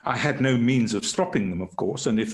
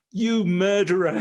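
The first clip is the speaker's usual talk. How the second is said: raised, louder mock yell of an accusing prisoner; retold scream; 8 semitones higher, 4 dB louder than usual. Doctor retelling a prisoner screaming at him, mild mock yell. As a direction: half-shout the accusation, imitating him. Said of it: "And he started screaming".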